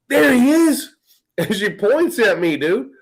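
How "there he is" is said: lightly voiced raised, louder call of a chubby smoky lady; a hint of a scratchy shopper spotting someone; lady's scratchy greeting. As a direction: point and call out like an excited older lady. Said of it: "kind of a scratchy, smoky".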